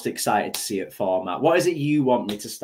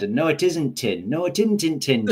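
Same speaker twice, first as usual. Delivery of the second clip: broad Yorkshire, "isn't in tin" run together; higher-pitched Yorkshire tongue-twister; Yorkshire meme; 5 semitones higher than usual. Retold or imitated. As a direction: chant it in thick Yorkshire dialect. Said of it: "the latest Yorkshire meme going round".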